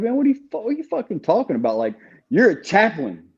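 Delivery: high, fast retold outburst; retold outrage. Inmate retorting to the chaplain, a high fast outraged reply. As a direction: throw the indignation back at him.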